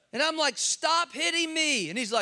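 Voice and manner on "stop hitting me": high, mock yelling voice. Retelling yelling at a German man who doesn't speak English, retelling his own yell. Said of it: "I'm yelling at him".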